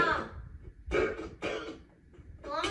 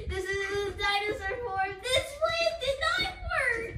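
mock crying; 5 semitones higher, 5 dB louder than usual. Plan fails, whiny.

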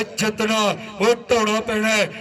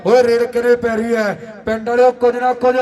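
frantic rural sports commentary; 4 dB louder than usual. Real, not acted. Live play-by-play.

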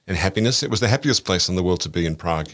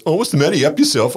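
mock taunt; 7 semitones higher, 4 dB louder, faster than usual. Retells heckler taunting him.

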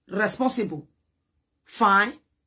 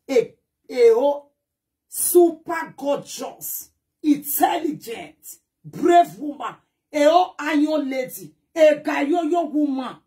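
slow, building to a loud brag; proud boast; 3 semitones higher, 4 dB louder, slower than usual. Real, not acted. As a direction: crow each word louder. Proudly listing her own virtues.

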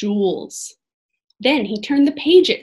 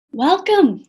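put-on thin shaky old voice; 6 semitones higher, 3 dB louder than usual. A narrator's reading. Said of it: "in a thin, shaky voice".

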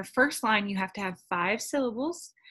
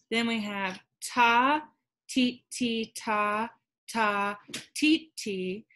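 ta and ti sounded out beat by beat; rhythm syllables; slower than usual. Shown as a demonstration. Teacher sounding out the second haiku line. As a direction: chant the rhythm slowly. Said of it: "Let's count that".

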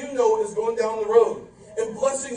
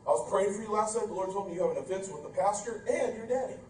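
pious church lady; 5 semitones lower, 11 dB quieter than usual. Retold or imitated. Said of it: "comes walking down the aisle and says".

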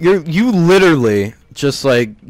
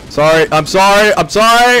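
pleading apology; 6 semitones higher, 5 dB louder than usual. Real, not acted. Pleading after killing teammate.

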